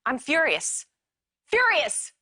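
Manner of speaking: rising angry shout, peaking on the last furious; furious outburst. Acted. Wife yelling at husband over his affair, furious. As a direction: let the anger boil over into a yell.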